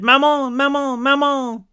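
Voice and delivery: high, drawn-out wailing plea; tearful wail. A narrator's reading. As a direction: wail it high like a sobbing child. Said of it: "heaving sobs".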